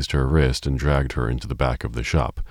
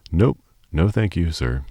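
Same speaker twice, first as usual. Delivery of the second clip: gasping; 4 semitones higher than usual. Acted. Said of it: "she gasped".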